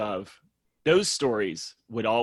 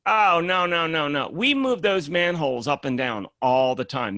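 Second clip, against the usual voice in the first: louder, emphatic mock protest from the mason; retold alarmed no; 4 semitones higher, 5 dB louder than usual. The mason protests about the manholes, loud mock alarm. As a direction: hit the no's loud and quick.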